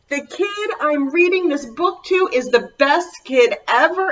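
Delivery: loud and bright; gushing. Pretend. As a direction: gush over the kid. Flattering the child.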